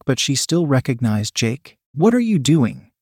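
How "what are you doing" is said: high, shrill alarmed question; shrill cry of alarm. A narrator's reading. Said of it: "Chloe said shrilly".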